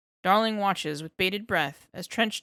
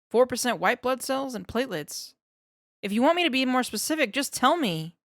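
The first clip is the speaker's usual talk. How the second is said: rattles the facts off fast and a bit higher; babbling to fill the silence; nervous eager scientist; 3 semitones higher, faster than usual. Acted. Darling lists blood components.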